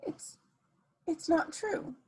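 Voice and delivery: stunned, faltering whisper of denial; breathless, shocked denial; shaken denial. Acted. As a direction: caught out, barely gets the words out. Thief exposed, stunned denial.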